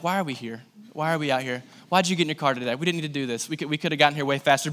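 low, soft grumble; mock driver's quiet griping; muted grumbling. Acted grumbling of stuck drivers.

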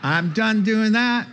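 high, loud, laughing through the words; laughing repeat. Retold or imitated. Pastor repeats the visitor's surrender, high and loud, laughing through it. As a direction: laugh while you retell it.

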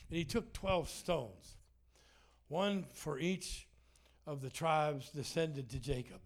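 slow, drawn-out Bible verse; slow scripture reading. Acted. Pastor reading the twelve stones verse to the church, slowly. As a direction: let each word land slowly.

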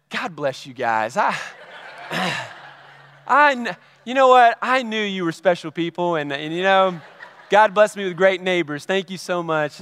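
hammed-up, effusive thanks; sheepish gushing. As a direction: overdo the gratitude to cover embarrassment. Sheepish gushing thanks after misjudging neighbors.

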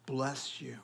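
soft hushed bless you; whispered blessing. Retold or imitated. Preacher hushing a quoted blessing to the congregation. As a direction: breathe it out unvoiced.

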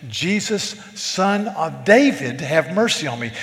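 a loud, pleading cry for mercy. Acted. Blind man crying out to Jesus for mercy, loud plea. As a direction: call out to Jesus as a blind beggar. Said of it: "he cries out with a loud voice".

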